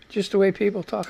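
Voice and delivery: way said lightly, voice dropping off; quiet echo. Real, not acted. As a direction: murmur it back to yourself. Repeats line, quieter echo.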